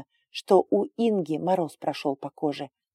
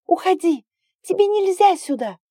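frightened plea; 7 dB louder than usual. Acted. Frightened girl begs him leave.

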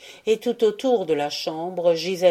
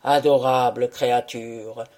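deeply moved; 6 semitones lower, 3 dB louder than usual. A narrator's reading. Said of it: "profondément ému".

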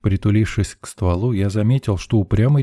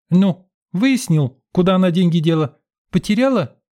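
impatient queue woman; 11 semitones higher, 3 dB louder than usual. Acted. Woman in the queue nagging the narrator, impatient. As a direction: press him with sharp impatience.

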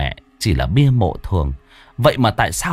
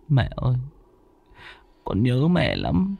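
tearful; 2 semitones higher, 5 dB quieter than usual. Acted. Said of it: "Vinh gục xuống nức nở".

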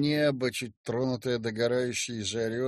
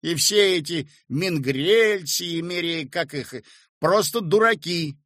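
louder stern dismissal; 5 semitones higher, 6 dB louder than usual. A narrator's reading. Yura dismissing the landlady's fears, stern. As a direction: shut it down sternly. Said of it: "строго сказал Юра".

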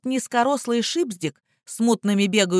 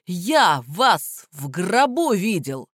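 slow spiteful outburst; much slower than usual. A narrator's reading. Prisoner cursing the lawyers, slow and venomous. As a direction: drag it out slow and nasty.

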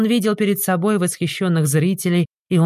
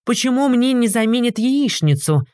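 higher, indignant demand; huffy aristocrat wants his eggs; indignant noble; 7 semitones higher than usual. A narrator's reading. Idalgo demanding, annoyed. (возмущённый аристократ)

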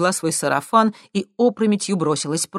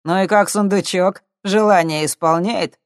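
sneering question; 4 semitones higher, 6 dB louder than usual. A narrator's reading. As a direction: needle her about the wish. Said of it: "поинтересовался уголовник". (с издёвкой, громче)

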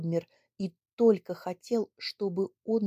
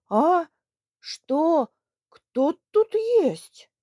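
put-on loud, gruff, slow old man's challenge; angry old man; 8 semitones higher, 7 dB louder, much slower than usual. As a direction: bark it out from the next room. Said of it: "послышался его сердитый голос". (сердитый голос старика)

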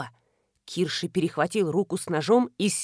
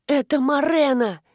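hoarse rasp; 4 semitones higher, 4 dB louder than usual. Acted. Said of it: "прохрипела Василиса под весом".

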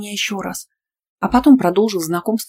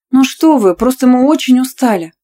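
high, breathless little plea; babbling sweetly; 6 semitones higher, 8 dB louder than usual. A narrator's reading. Student pleads with the coach, high and sweetly innocent. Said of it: "пролепетала Настя".

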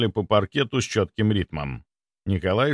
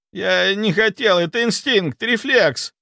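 whining excuse; 9 semitones higher, 3 dB louder than usual. Acted. Doctor keeps whining under table.

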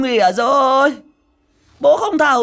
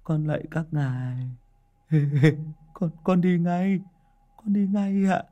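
higher, trembling mock plea; a lightly voiced terrified plea; frightened pleading; 8 semitones higher than usual. A narrator's reading. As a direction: beg the spirits, scared. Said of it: "miệng lẩm bẩm".

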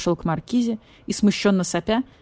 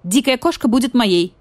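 quickly; 5 semitones higher, 6 dB louder than usual. Acted. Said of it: "быстро сказал барсукот".

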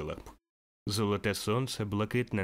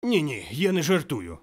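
reassuring; 5 semitones higher, 6 dB louder than usual. Acted. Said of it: "запевнив його Скрудж".

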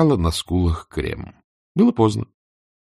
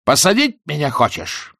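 booming triumph; 8 semitones higher than usual. A narrator's reading. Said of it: "загремел, торжествуя".

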